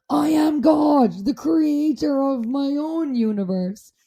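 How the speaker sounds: slow, drawn-out mock proclamation; retold scream. Retelling the trip's revelation, mock scream held back. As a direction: declare it slowly, a restrained imitation of screaming. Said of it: "it was screaming at the top of it".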